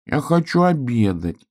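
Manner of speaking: slow, pitiful plea; plaintive. A narrator's reading. Hrjuk pleads for lunch again, plaintive and slow. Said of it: "ещё раз жалобно сказал он".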